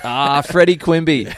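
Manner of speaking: loud, slow nephew yell; Quimby voice impression. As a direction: call the name out high and proud. Imitating Quimby's name call.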